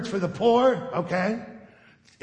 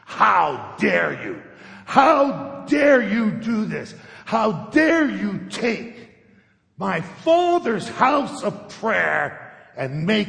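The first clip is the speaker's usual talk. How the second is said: slow, louder, indignant demand; furious rebuke; 2 semitones higher, 4 dB louder, slower than usual. Retold or imitated. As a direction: thunder it out like an outraged prophet. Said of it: "as hard and as loud as he could".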